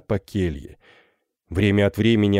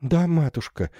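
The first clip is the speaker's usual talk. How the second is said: bewildered; 8 semitones higher than usual. Acted. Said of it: "растерянно продолжала".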